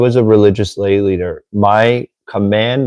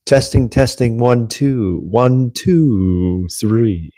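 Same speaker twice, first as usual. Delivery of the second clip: radio voice; slower than usual. Shown as a demonstration. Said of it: "This is my radio voice".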